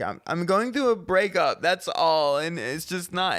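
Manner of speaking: put-on high, slow upset drunk voice; upset drunk woman. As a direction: whine it like she's about to cry. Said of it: "she yells".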